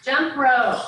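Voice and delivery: loud barked exercise call; barking gym coach. Real, not acted. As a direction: call it out to the class. Coach calling out next exercise.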